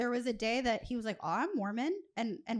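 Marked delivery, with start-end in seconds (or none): 1.2-1.9 put-on, defensive and on-guard tone. Retelling a friend's reply about being Mormon: imitating someone sounding defensive. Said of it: "was very, like, defensive".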